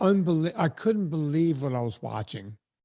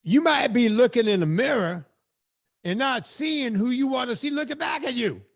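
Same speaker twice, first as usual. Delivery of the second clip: black preacher; 6 semitones higher than usual. Pretend. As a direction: preach it with full fire. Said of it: "I just became a black preacher".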